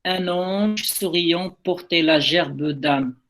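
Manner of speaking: measured recitation of verse, drawn out towards the end; poem reading. Acted. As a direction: read the closing verses aloud to a class, unhurried. Reads the poem's last verses. (lecture de poème, posée et lente en fin de vers)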